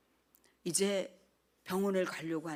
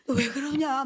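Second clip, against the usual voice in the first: crying worried teacher; 6 semitones higher, 8 dB louder than usual. Retold or imitated. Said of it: "막 이러면서 막 우시는 거예요".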